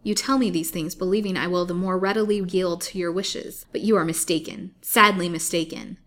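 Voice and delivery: defiant. Acted. Lily defies her captors.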